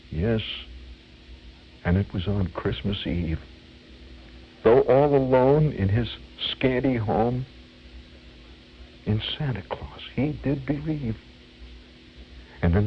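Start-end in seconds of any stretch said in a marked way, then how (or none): 0.1-11.2 solemn verse with heavy pauses; imitated stage melodrama; dramatic reciter. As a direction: recite like an amateur tragedian, phrase by phrase. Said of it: "in a very dramatic voice".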